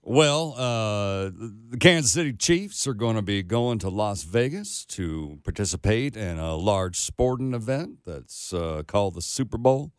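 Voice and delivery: half-hearted South Carolina drawl; South Carolina accent. Shown as a demonstration. Put on the spot by colleague, tentative South Carolina accent. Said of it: "make it in that accent".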